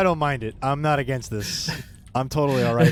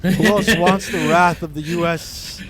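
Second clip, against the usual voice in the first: battle cry; 5 semitones higher, 8 dB louder, slower than usual. Pretend. Battle cry in space game.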